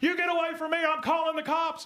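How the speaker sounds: put-on yelling, barked out lightly. Retelling a video where a woman yells at a man by her car, imitating someone yelling. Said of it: "she's standing there yelling at him".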